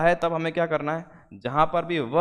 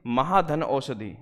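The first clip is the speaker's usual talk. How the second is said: slow split-up reading; slower than usual. Shown as a demonstration. Teacher to students splitting the word, slowly. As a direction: break the word into parts slowly. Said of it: "आप देख रहे हैं महौषधि".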